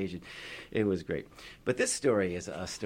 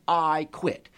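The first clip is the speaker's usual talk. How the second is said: quitting; 7 semitones higher, 6 dB louder than usual. Acted. George quits.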